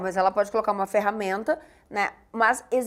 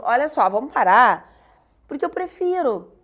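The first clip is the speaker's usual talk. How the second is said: louder, putting a stop to it; mock exasperation; 5 dB louder than usual. Switching to audio after too many texts, exasperated. Acted exasperated voice message reply.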